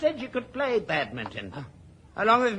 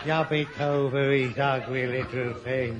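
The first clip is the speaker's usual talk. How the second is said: eerie hypnotic command; 4 semitones lower, slower than usual. Acted. Hypnotic inner voice guiding him to smother his father. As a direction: coax him step by step, slowly.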